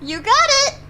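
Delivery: cheery character voice. Acted.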